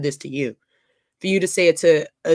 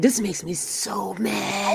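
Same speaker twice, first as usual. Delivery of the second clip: mock mad; 2 semitones higher, 7 dB quieter, much slower than usual. Retelling her anger at a message.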